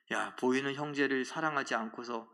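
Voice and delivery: mild, composed acted admonition; understated, gentlemanly reproof; polite restraint. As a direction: speak God's words in a measured way. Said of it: "이건 점잖게 얘기하신 거죠".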